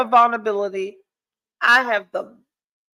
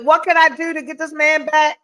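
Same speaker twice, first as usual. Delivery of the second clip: pleading question; 5 semitones higher than usual. Retold or imitated. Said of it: "I was like".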